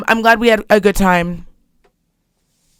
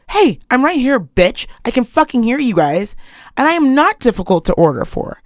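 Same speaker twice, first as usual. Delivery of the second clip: mock-indignant comeback, emphatic; acted-out offended reply; indignant retort; 3 semitones higher than usual. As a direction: call them out in a retold protest. Retold indignant reply to overheard gossip.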